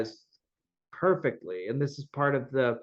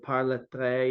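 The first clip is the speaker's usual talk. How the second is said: French phrase in a halting accent; broken French. Real, not acted. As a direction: stumble through the French words. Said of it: "sorry for my bad French".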